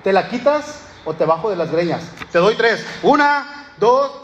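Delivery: hammed-up bully counting to three; mock threat. Angry man threatens the drummer.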